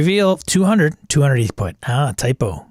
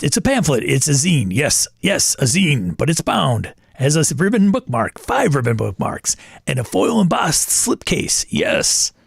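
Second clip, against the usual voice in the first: Pitchman voice. Acted. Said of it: "You gotta put Pitchman voice".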